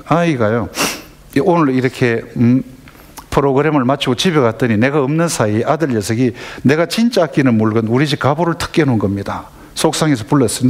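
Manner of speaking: normal talking voice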